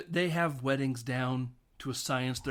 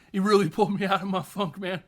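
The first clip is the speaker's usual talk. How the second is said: rowdy best man; 7 semitones higher, 7 dB louder than usual. Retold or imitated. Rambling best man speech.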